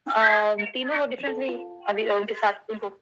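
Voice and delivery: patchy call audio with dropouts; words breaking up on a bad line; voice cutting out. Real, not acted. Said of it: "آپ کی آواز کٹ گئی تھی". (کال پر ٹوٹتی ہوئی آواز)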